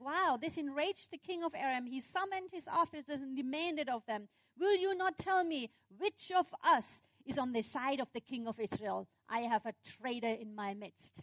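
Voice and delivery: mildly angry king demanding answers; beefed-up king. Acted. King to his officers about a traitor, mildly angry. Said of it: "King Aram was getting a little beefed about this".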